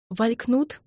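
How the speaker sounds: choking on tears, breathless and high. A narrator's reading. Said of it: "задыхаясь".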